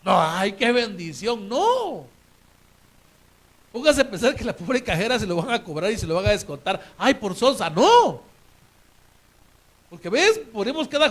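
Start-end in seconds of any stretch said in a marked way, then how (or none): 0.0-2.1 slow, sly fake delight at the windfall; mock delight. Preacher mocks a shopper pleased with extra change, slyly delighted. 7.0-8.2 higher, louder scoffing at the cashier; mock scorn. Preacher mimics a shopper scorning the cashier, loud mock sneer.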